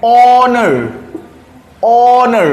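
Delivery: ऑनर spoken with no h sound, starting straight on the vowel; silent h. Shown as a demonstration. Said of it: "एच रहेगा silent".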